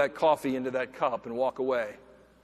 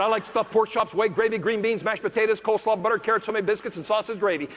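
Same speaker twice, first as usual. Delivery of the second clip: imitating Brian listing his favourite foods, high and delighted; excited listing; 8 semitones higher, 5 dB louder than usual. Husband delighted to tell the speaker about his meals, excited and laughing. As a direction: gush over every dish, pitched up.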